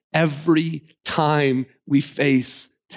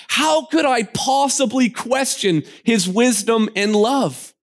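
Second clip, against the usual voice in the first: raised, incredulous retort in Eve's voice; Eve's indignant reply; 6 semitones higher than usual. Retold or imitated. Eve scolds the serpent in the garden, raised and incredulous. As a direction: scoff at the serpent's suggestion. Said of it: "He says".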